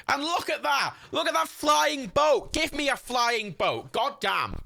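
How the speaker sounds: high, slow gleeful exclamations; delighted. Real, not acted. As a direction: fan thrilled at a flying boat, excited. Thrilled seeing a flying boat.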